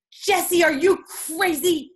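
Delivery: high, slow disbelieving grandma; a scolding grandmother, high and slow. Retold or imitated. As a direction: play the shocked nanny, drawn out. Grandma scolding over phone price.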